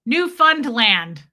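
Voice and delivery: Newfoundland, loud and drawn out on NEW; stress on NEW in Newfoundland. Shown as a demonstration. Host rehearsing the place name, stress on NEW in Newfoundland. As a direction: lean hard on the NEW of Newfoundland. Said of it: "The emphasis is on new".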